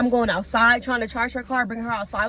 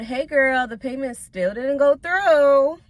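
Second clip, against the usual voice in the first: irritated; 3 semitones higher, 5 dB louder, slower than usual. Retold or imitated. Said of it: "I'm saying it how I'm thinking it".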